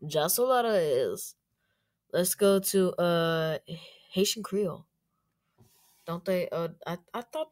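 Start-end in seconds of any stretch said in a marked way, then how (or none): 0.0-1.4 slow Filipino-style "Jasul Arraez"; Filipino pronunciation. Retold or imitated. Language learner copying a Filipino voice, slow Filipino accent. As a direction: echo a Filipino reading of the name, unhurried.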